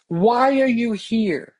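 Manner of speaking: slow, spaced-out question; deliberate questioning. Acted. Asking a newcomer why he came, deliberate questioning. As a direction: ask it slowly and pointedly. Poses a solemn imagined question.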